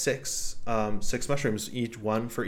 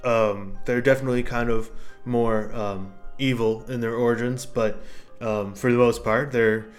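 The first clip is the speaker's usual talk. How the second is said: put-on louder, lightly gruff old mushroom; an ancient mushroom speaking after centuries; 4 dB louder than usual. GM voices the talking mushroom.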